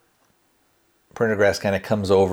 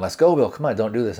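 half-hearted imitation of yelling; mild mock yell; faster than usual. Prin begs Bill to stop the countdown, mildly yelling. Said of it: "he's yelling at him".

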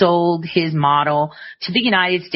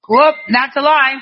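sharp call-out; 7 semitones higher, 5 dB louder than usual. Real, not acted. Interrupts clip.

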